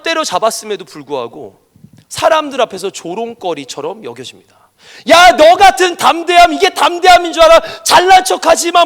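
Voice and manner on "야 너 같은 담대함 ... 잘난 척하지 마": loud, high jeering shout; mocking scold. Mockers jeering at bold David, loud scolding shout. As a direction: sneer him down as a show-off. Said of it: "막 이러면서 욕을 먹어요".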